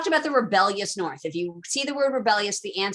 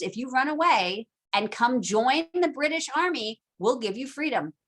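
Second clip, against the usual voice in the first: mock proclamation; 3 semitones higher, slower than usual. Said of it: "And he's like".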